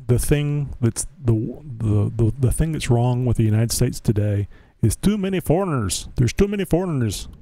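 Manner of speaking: imitating a Scottish dad, pitch climbing at the end; lightly put-on Scottish accent for a punchline; thick Scottish accent. Host retelling a friend's dad's complaint, mock Scottish accent. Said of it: "in his thick Scottish accent".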